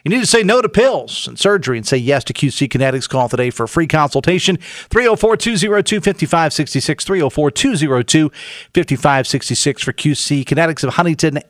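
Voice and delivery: upbeat radio sponsor read. Acted. Host reads sponsor spot live.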